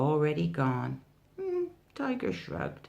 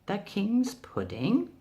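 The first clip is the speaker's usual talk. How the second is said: puzzled; 4 semitones higher than usual. Acted. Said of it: "Tiger puzzled".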